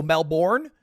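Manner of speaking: Melbourne in a heavily American pronunciation; full American. Shown as a demonstration. Comic lists ways to say the city, exaggerated American Melbourne. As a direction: overdo the American reading of Melbourne. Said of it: "You can go full alt-right".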